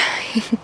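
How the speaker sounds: short, quiet breath of laughter; brief hushed giggle; soft laugh. Real, not acted. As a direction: let out a small real chuckle. Laughs during the pose.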